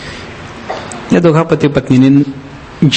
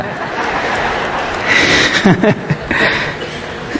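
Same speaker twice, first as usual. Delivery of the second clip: soft breathy laugh; 5 semitones higher, 6 dB quieter than usual. Real, not acted. Preacher laughs after punchline.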